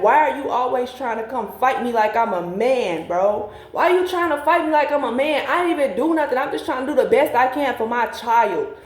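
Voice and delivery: high, pleading retold sob, fast in spots; tearful retelling. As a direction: plead high and hurt, as if crying again. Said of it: "So I'm just crying".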